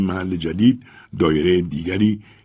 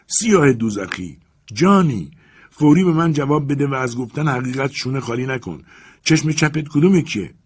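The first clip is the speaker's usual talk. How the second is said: furious shout; 7 semitones higher, 4 dB louder than usual. A narrator's reading. Master grabs servant's collar, furious shout. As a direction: bellow at the servant in rage.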